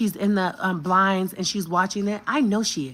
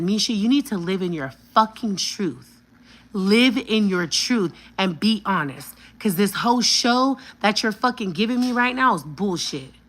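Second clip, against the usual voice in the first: emphatic, slowed-down telling off; re-enacted heated demand; retold confrontation; 3 semitones higher, 4 dB louder than usual. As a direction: lay down the law, loud on key words. Retells own angry confrontation.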